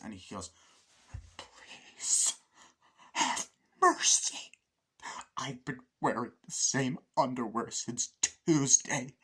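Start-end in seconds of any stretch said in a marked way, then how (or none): 1.4-9.1 begging the motel clerk for a room, hammed-up; mock pleading. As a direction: wail it like a desperate beggar.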